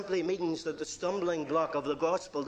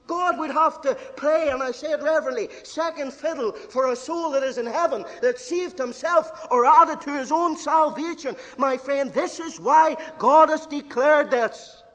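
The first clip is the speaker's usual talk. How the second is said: loud, higher building proclamation; forceful preaching; 8 semitones higher, 8 dB louder than usual. Real, not acted. Preacher warning his friend about pride, loud forceful. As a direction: push hard to declared.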